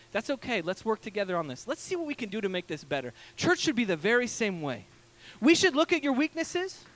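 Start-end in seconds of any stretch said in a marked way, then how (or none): 0.1-3.1 softer, reassuring and gentle; kind dentist. Retold or imitated. A caring dentist encouraging a weak patient, softly reassuring. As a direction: comfort a nervous patient. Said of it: "looks at my weakness and say".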